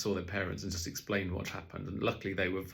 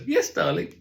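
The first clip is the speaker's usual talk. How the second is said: much higher and louder put-on voice; highest voice; 9 semitones higher, 8 dB louder than usual. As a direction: push the voice right up high to cover. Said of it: "my highest voice".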